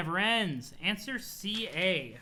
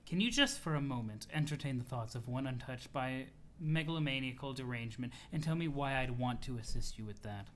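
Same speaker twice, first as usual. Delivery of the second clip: lower, softer, measured character voice; composed, formal troll; 4 semitones lower, 4 dB quieter than usual. Acted. Troll declining to help CA, cool and composed. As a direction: answer coolly in a low, quiet voice.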